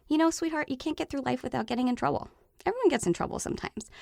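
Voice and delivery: put-on gentle parent-to-child reassurance; reassuring parent. Comforting her child after consequences.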